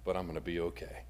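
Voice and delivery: calm yourself, trailing into a whisper; reassuring self-talk fading to a whisper. Acted. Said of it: "allows us to say to ourselves".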